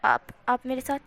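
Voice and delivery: fast, stammering embarrassed protest; flustered stammer. Acted. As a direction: blush and stumble over the words. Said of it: "लाल होते हुए कहता है".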